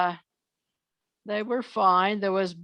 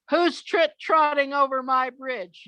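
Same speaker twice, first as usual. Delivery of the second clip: lightly acted troll call, pitched higher; troll's challenge; 6 semitones higher than usual. Troll challenges middle goat.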